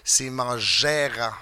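announcer intro. Acted. Host announcing the guest to the crowd, big announcer voice. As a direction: ring announcer build-up, slow and drawn out.

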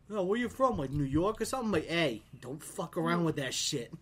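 retold indignant challenge; mad retort. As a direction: act out snapping back at him. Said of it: "I got so mad".

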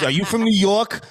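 high-pitched mimicked yell; mock yell. Imitating people in Vegas asking him, high mock yell. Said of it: "Everybody always yells".

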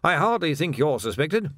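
gently amused captain; little smile. A narrator's reading. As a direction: reassure with a small smile. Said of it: "said Tilden with a little smile".

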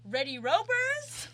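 high, loud camp counselor voice; rally the ropers like a camp counselor; peppy orientation leader. Pretend. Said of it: "camp counselor voices".

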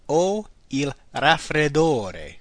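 very slow, deliberate repeat. Shown as a demonstration. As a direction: drag it out so learners can follow. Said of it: "I have a cold".

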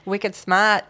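dropped-R Boston "smart"; playful Boston-accent catchphrase. Pretend. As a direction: say it like a Bostonian, "smaht". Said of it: "the Boston accent".

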